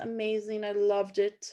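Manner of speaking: normal talking voice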